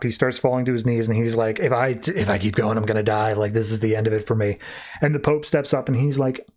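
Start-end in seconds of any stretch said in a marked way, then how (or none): 1.6-4.6 low, lightly voiced defeat; giving up. Brute falls to his knees, giving up. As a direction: let the fight drain out, understated. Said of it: "he starts giving up".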